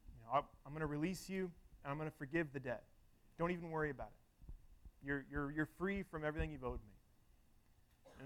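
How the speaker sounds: soft, gentle release, slowing at the end; compassionate. Retold or imitated. Master releases his slave from debt, gently compassionate. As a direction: quietly reassure the one who owes you. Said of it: "is moved with compassion".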